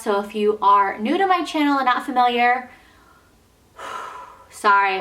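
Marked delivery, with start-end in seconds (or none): 0.0-2.7 winded, gasping between phrases; out of breath. Real, not acted. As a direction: push through short of air. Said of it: "I'm out of breath".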